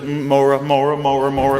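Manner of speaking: put-on a child happily calling teacher; kids drawn to teacher. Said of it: "every kid's like".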